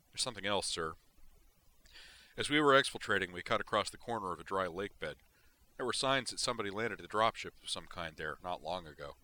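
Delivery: a hint of a soldier giving a firm field report; Marine sergeant reporting.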